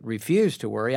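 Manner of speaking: a hint of a sceptical listener throwing the words back; doubtful listener. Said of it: "you may say, "Oh, now, wait a second".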